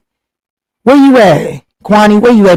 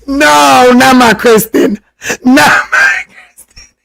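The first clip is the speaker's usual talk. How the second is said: mock cry; 5 semitones higher, slower than usual. Mock hurt at viewer comment.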